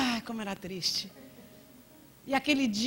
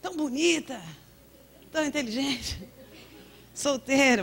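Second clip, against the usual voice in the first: higher, sing-song mock compliment on "Tão bonita, tão inteligente, solteira"; a hint of a gushing busybody; church lady; 5 semitones higher than usual. Church lady's backhanded compliment.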